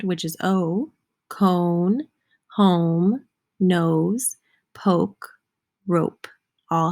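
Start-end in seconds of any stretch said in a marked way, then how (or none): 0.4-0.9 "O" said as a full "oh"; long O sound. Shown as a demonstration. Teacher naming the long vowel in her words, "O" sounded as "oh". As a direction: say "O" like the letter's name. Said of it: "that long O sound".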